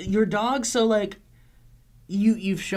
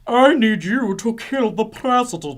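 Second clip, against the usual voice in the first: put-on careful British accent; slower than usual. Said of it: "Okay, hold on".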